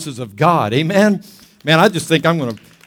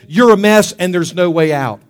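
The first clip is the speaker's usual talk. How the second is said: loud, accusing verdict; condemnation; 4 dB louder than usual. Acted. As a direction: pronounce it forcefully, like an accuser. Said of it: "condemnation says".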